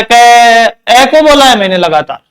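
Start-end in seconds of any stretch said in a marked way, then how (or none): 0.0-0.6 कै with the ए held long; drawn-out syllable. Shown as a demonstration. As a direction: stretch the vowel in कै. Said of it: "लगातार मैंने ए को बोला है". (कै में ए को लंबा खींचकर)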